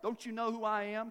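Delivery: mildly haughty challenge; a bit of attitude. Acted. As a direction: lightly put on some sass. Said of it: "with a little bit of attitude, like".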